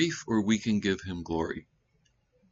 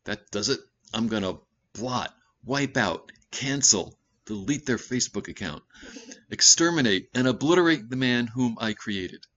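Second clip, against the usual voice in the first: fed-up God; 3 semitones higher than usual. Retold or imitated. Preacher voicing God's fed-up rant in a mild mock fury. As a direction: list the verbs faster and angrier. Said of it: "And God said".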